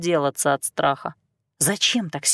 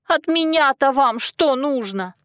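wailing; 7 semitones higher, slower than usual. A narrator's reading. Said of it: "взвыла девица".

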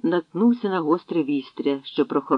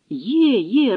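joyful shouting; 7 semitones higher, 3 dB louder than usual. Acted. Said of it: "радісно загукали".

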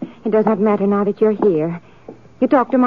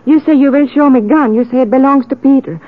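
louder, heated refusal; angry defiance; 4 dB louder than usual. Acted. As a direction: fight back against the accusation. Anna refuses to believe Pete guilty.

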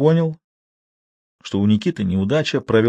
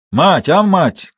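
higher, louder call to the wife; shout; 8 semitones higher, 5 dB louder, much slower than usual. A narrator's reading. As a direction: bellow for the old woman. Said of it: "крикнул он". (громко зовя жену)

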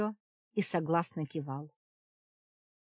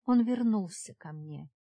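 ordinary delivery, nothing marked

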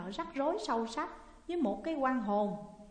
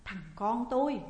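quick cry to the son for help; calling out loud; 4 dB louder than usual. A narrator's reading. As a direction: call out to scare him off. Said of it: "hô lớn". (hô lớn gọi con)

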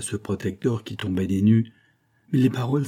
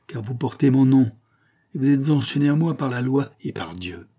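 forceful eloquent pleading; vigorous eloquence. Acted. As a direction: press every word home with vigor. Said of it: "continua sur le même ton avec une vigueur éloquente". (avec une vigueur éloquente)

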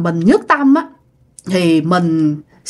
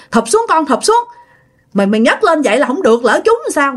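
grandma urging; 5 semitones higher, faster than usual. Retold or imitated. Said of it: "Bà nội nói rằng".

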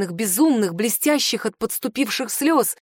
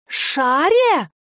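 shout; 6 semitones higher, 3 dB louder than usual. A narrator's reading. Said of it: "Эйра сорвалась на крик".

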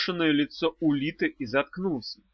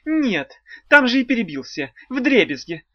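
tearful blubbering; 8 semitones higher, 6 dB louder than usual. A narrator's reading. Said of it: "едва выговорил он, растирая по лицу слёзы".

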